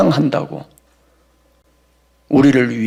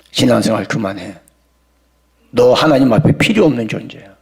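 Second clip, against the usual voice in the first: devil taunting. Acted. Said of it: "거기다가 마귀가 곁들입니다".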